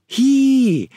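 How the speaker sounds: very high, loud, drawn-out squeal; high-pitched shriek. Shown as a demonstration. Teacher demonstrating a shocked reaction, high-pitched. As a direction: squeal as if stepping on a mouse. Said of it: "I've just heard it screamed mostly".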